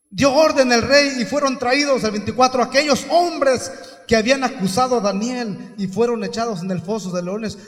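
strong projected church reading; preacher's scripture reading. Real, not acted. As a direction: proclaim the verse forcefully. Declaims scripture to congregation.

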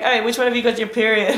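lightly voiced cartoon coyote; mild Looney Tunes villain voice; cartoon coyote asking the pack, lightly voiced. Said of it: "in the cartoon, he's just like".

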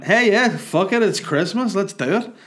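put-on drunkenly thrilled to take the shot; drunk enthusiasm. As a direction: leap at the offer, giddy. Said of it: "But I went".

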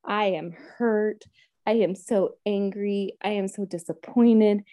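slow, blunt, hurt retelling of crying; retold tearful prayer. Venting to Heavenly Father, slow hurt lament. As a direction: spell out each feeling slowly, a hint of tears. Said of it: "ugly crying to Heavenly Father".

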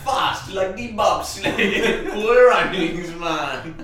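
put-on slow, laughing Jamaican accent. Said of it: "why you gone Jamaican".

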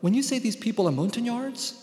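measured literary narration, read to a hall; novel reading. Acted. Author reading his own novel to an audience, measured narration. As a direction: read the passage out, steady and deliberate.

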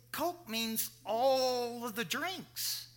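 drawn-out, insistent correction; emphatic retort. Retold or imitated. Explaining Kentucky usage to his Boston friend, insistent. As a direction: stretch it out to spell it out.

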